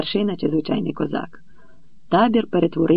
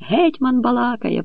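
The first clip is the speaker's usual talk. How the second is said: crowd call; 7 semitones higher than usual. A narrator's reading. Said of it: "почулося кругом".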